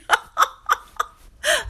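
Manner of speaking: loud high-pitched laugh. Real, not acted. Laughs at glitchy Wi-Fi joke.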